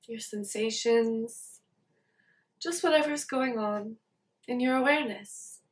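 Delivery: soft, unhurried meditation guidance with long pauses; guided meditation. Acted. Teacher leading listeners to check in with body and mind, guided meditation. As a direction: gently guide listeners to settle into awareness.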